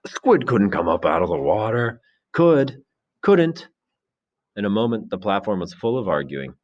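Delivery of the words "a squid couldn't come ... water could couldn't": acted argumentative shout, rising higher; boys' heckling, louder on the short retorts. A narrator's reading. Someone in the assembly disputing the squid, high argumentative shout. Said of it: "someone shouted".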